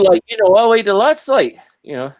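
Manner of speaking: high, loud Geordie shout-out; thick Geordie accent. Acted. Showing a Newcastle accent, exaggerated thick Geordie. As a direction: belt it out in broad Geordie. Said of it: "someone with a real thick Geordie accent".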